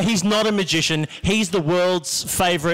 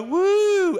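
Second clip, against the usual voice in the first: high mock party whoop; lame party woo; 13 semitones higher than usual. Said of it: "people who go".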